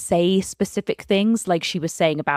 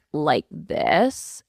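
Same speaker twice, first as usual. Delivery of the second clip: vocal fry. Shown as a demonstration. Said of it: "vibrate their voice and it has that".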